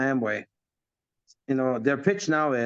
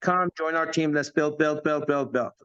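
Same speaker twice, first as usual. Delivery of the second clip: recruiting pitch; 2 semitones higher than usual. Retold or imitated. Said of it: "We say".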